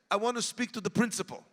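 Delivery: put-on lightly Russian-accented English, fairly quick; a hint of a Russian accent. Grandmother asking for the principal, in a light Russian accent. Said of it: "I did a Russian accent in English".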